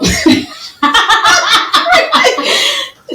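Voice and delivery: loud, high burst of laughter. Real, not acted. Host cracks up at the guest's accent, laughing loudly.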